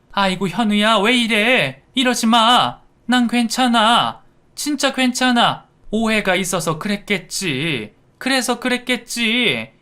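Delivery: high-pitched, anxious plea; calm him down urgently, softening toward the end; pleading mother. Acted. Mother holding back her angry son, pleading. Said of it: "하면서 아들을 말렸습니다".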